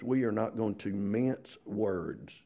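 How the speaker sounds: slow, deliberate American plain words; measured American rephrasing; slow and firm. Shown as a demonstration. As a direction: spell it out slowly. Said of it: "we'd say it like this".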